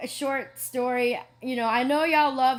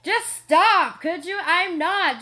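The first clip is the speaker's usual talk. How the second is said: higher, louder exasperated ugh, just stop; annoyed retort; 3 semitones higher, 3 dB louder, slower than usual. Retold or imitated. Tila to the janitor, higher and louder in mock annoyance. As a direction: snap it off, fed up but playful. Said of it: "And I'd get really angry".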